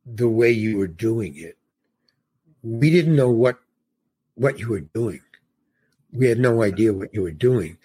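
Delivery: low-key director explaining patiently; measured explanation. Retold or imitated. Director's measured answer, acted out.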